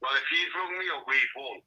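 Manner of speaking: thin voice over a phone speaker; speakerphone. Real, not acted. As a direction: talk through the phone on speaker. Dad on speakerphone.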